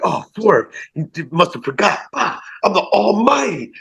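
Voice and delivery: high put-on villain voice; voicing a wrestler. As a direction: talk for the wrestler in a high, smug voice. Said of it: "talk for them during the matches".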